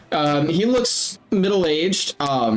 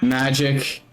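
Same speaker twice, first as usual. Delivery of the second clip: measured showman's welcome with long pauses; lightly voiced ringmaster; 3 semitones lower than usual. Ringmaster welcoming the crowd to the circus, measured showmanship. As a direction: present the show grandly, pausing between phrases.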